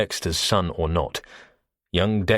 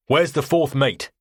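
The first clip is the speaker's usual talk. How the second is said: demanding; 6 semitones higher, 3 dB louder than usual. A narrator's reading. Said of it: "I demanded".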